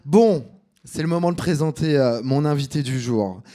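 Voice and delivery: put-on light Marseille accent; a hint of Marseille accent. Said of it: "pourquoi j'ai pris l'accent marseillais".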